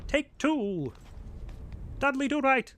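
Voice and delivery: high, loud mock announcer call; announcer flourish. Calling a second attempt, a hammed-up announcer. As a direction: slate the retake like a showman. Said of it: "We're gonna do a better job".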